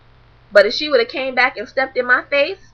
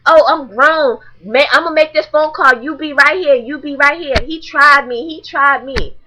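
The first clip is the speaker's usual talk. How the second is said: higher, louder bratty mock; mocking girl's voice; 3 semitones higher, 4 dB louder than usual. Mimicking the girl threatening to call someone, high and loud. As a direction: act out her petty threats. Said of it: "she's like".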